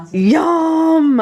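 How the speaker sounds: high, loud delighted yum; excited yum. Real, not acted. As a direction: squeal it with delight. Delighted about the sub.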